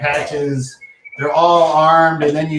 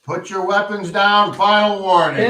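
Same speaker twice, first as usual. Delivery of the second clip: stern warning; 5 semitones higher than usual. Acted. Sheriff gives final warning.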